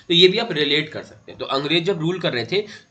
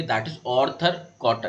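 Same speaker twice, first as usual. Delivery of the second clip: slow emphasis; 4 semitones lower, much slower than usual. Shown as a demonstration. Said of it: "आप एक नाम बार बार पढ़ेंगे".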